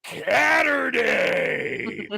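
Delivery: put-on upbeat promo in a light British accent. Producer hypes the signing in a British accent. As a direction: announce the book signing in a mild British accent. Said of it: "I like that you went with the British voice".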